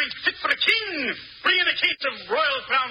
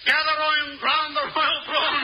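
pompous emperor; 2 semitones higher than usual. Acted. Alan playing the pompous emperor.

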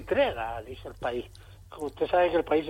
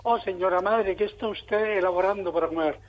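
mock formal Spanish. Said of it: "en español de Valladolid".

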